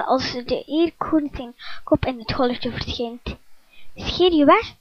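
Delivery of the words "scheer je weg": luide boze uitval; boos roepen. Acted. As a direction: jaag hem boos weg. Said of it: "roept hij boos". (de eekhoorn scheldt Erik weg: luid en boos)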